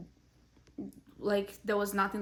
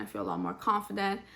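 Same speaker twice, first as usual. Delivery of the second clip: out of breath. Real, not acted. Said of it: "Sorry, I'm out of breath".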